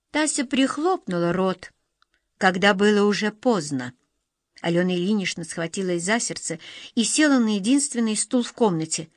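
usual speaking voice

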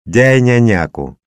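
put-on high, loud toddler demand; small child. A narrator's reading. Little daughter demands from her father, childish.

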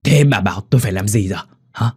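hissed frustration. Acted. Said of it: "rít lên".

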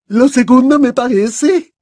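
a lofty headmistress, unhurried; Madame Maxime voiced.

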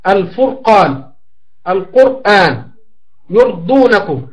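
الفرقان with a thick sakin r, slow and careful; teacher reciting model words slowly; heavy r. Shown as a demonstration. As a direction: slowly sound the heavy r in القرآن. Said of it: "أو مضموم مثل عرضة".

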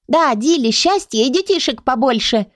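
a hint of a lively chronicle calling out; called out. A narrator's reading. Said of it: "выкрикнула Леонила".

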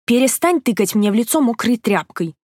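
feverish girl pushing off the wet cloth, indignant, lightly voiced; a touch of outraged patient; indignant protest. A narrator's reading. Sick Katya protests the compress, mildly indignant. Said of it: "Возмутилась Катя".

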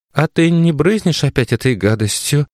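unsure mumble. A narrator's reading. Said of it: "неуверенно пробормотала мама".

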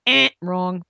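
breathy whispered verdict, no voice at all; whispered wrong. Real, not acted. Host to aspiring writers, whispered dismissal. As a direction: whisper it like a secret correction.

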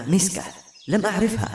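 high-pitched disbelief; taken aback, pitch jumping up; astonished. A narrator's reading. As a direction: ask it with the voice lifted in amazement. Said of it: "وقد طلت من عينيها دهشة عارمة".

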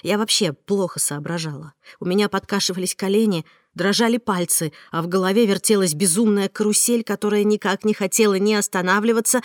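usual speaking voice

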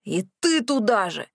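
a touch of an aghast gasp; mildly scandalised cry. A narrator's reading. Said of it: "ахнул Морис".

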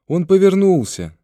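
put-on high, loud little-girl shout; piping up loudly with news; child's excited cry. A narrator's reading. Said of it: "крикнула Соня".

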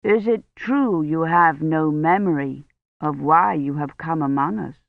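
lightly voiced priest with an accent; Roche, questioning priest. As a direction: ask gently and deliberately, as a priest.

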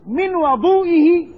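"وضوئه" as wa-DOO-i-hi; fatha on the waw. Shown as a demonstration. Teacher naming the water used for ablution, fatha on the waw. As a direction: open "a" after the w in "وضوئه". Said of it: "الواو المفتوحة".

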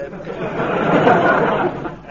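short breathy sly laugh; a wicked little wheeze of glee; gloating chuckle. Acted. Frazer blackmailing Sir Charles, a short gloating breathy chuckle.

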